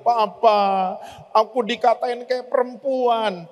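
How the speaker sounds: mildly voiced wounded boy; a touch of a child seeking comfort; hurt child. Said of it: "pulang ke papanya, pengen minta perlindungan".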